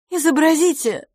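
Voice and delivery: high, loud command; stern demand. A narrator's reading. Miss LaFosse orders a walking test, stern. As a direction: order it loudly, high-pitched and strict. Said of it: "строго потребовала мисс Лафос".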